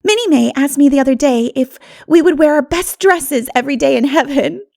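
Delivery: ordinary delivery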